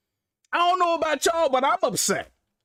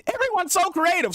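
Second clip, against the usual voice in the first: higher mock lady's "Everyone's so creative"; sarcastic higher imitation of the ad lady; 6 semitones higher than usual. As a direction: parody her sing-song praise, pitched up. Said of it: "what's that shit that lady saying".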